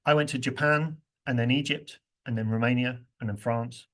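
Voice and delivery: and then rushed, places kept on the beat; squeezed rhythm. Shown as a demonstration. Teacher showing longer sentence in same time, squeezed. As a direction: cram "and then" between the stressed names. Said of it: "Now look what else happens".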